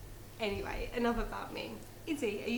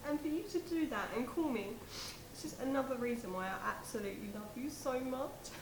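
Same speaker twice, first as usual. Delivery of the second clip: gushing phone call; 3 semitones higher than usual. Acted.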